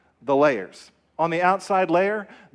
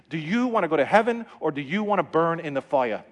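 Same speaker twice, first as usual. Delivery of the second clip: lightly voiced little girl saying "fiya" for fire; a hint of a small child's blunt question; imitated five-year-old daughter. Young daughter bluntly questioning her uncle, lightly imitated child. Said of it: "That's exactly how she said it".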